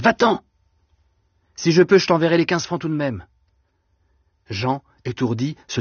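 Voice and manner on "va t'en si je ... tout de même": Va-t'en pushed even higher, desperate; panicked plea. A narrator's reading. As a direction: send him off in rising panic. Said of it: "répétait Denise".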